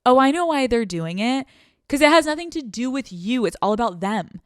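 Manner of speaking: realization. Retold or imitated. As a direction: say it like it finally clicked. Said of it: "you're like".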